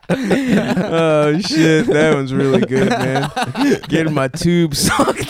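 high giggling through the words; can barely talk for laughing; laughing fit. Real, not acted.

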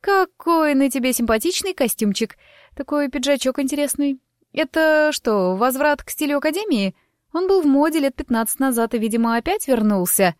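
a lively gossip, light and quick; chatty young woman. Acted. Narrator voices chatty Lima.

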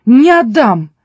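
loud, firm refusal; defiant outburst. Acted. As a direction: refuse forcefully, voice dropping at the end. Peter defies the snake's demand.

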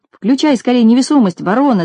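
urgent mock shout, pitch up; hurried yell under gunfire. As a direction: bark the order at his friend. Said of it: "закричал Винтик".

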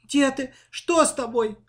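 high, loud, panicked calling; scared calling; frightened shout. A narrator's reading. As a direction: yell into the burdock in fear. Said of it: "в ужасе закричала девочка".

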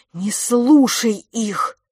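slow, loud urging; urgent plea. Acted. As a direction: plead urgently. Twin covers his ears.

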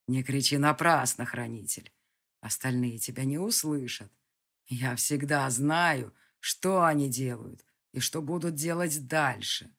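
a distant villain in no hurry; menacing villain. Acted. Villain answers from outside. (низкий угрожающий голос злодея)

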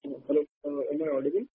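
faint, far from the phone; speaking well away from the mic; barely audible. Real, not acted. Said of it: "we can barely hear you".

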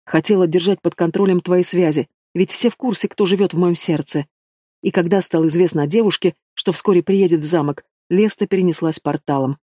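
ordinary delivery, nothing marked

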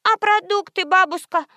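put-on high little-girl voice; little girl asking her grandmother; child voice. A narrator's reading. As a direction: ask like a small kid.

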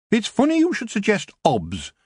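high dwarf voice, measured and sly; slowly. A narrator's reading. Dwarf Shrocker slyly considering payment in favours. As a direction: stretch it out, weighing the deal. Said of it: "he said slowly".

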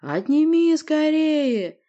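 loud, slow, high monster roar; monster's forceful bellow; roared order. Acted. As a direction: roar the command, drawn out. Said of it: "непривычным рыком приказал Рыкенсторг".

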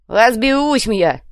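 slow, loud brush-off; dismissive. Acted. The savage brushing off the warning, loud dismissive. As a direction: wave it off loudly. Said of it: "отмахнулся Уйбуй".

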